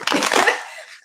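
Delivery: high breathy giggle; airy little giggle; embarrassed laugh. Real, not acted. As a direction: laugh it off sheepishly. Laughs at own emotion.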